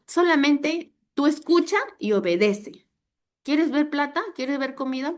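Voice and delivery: high, loud emphatic urging; insistent command. Retold or imitated. Nephew answers his doubting uncle, insistent and emphatic.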